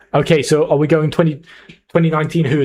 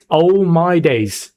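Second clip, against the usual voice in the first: drawn-out, higher-pitched exclamation; excited exclamation; 4 semitones higher, much slower than usual. Real, not acted. Streamer reacts to a huge draft hit, excited. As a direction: stretch it out in amazement.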